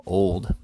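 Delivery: put-on "Old" said short and firm, pressed down; brief and emphatic. A narrator's reading. Jingle cuts the attorney short, one firm "Old". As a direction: clip "Old" off with weight. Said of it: "briefly but emphatically".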